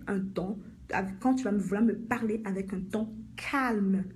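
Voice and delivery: slow, deliberate boundary-setting; measured, firm assertion. Shown as a demonstration. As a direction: state it firmly and slowly, weighing each word. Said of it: "Tu dis ceci de manière ferme".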